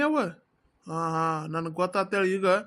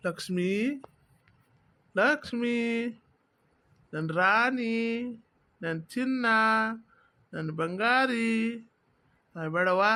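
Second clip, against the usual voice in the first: coaxing tenderly; 2 semitones lower than usual. Acted. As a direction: coax her gently, like soothing a child. Husband coaxing crying wife.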